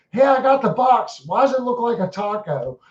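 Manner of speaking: high, fast puzzled voice; surprised. Pretend. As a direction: act baffled at the box. Imagined customer opening box.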